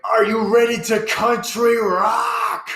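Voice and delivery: high slow hyped country rock yell; country announcer shout. Pretend.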